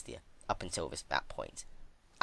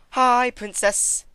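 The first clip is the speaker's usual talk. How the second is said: much higher, slow sing-song greeting; cheery exclaim; 10 dB louder, much slower than usual. A narrator's reading. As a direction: greet her sweetly like an old friend. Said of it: "she exclaimed".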